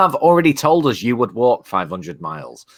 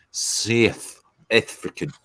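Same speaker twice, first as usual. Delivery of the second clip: South African accent; slower than usual. Shown as a demonstration. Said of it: "That was probably awful".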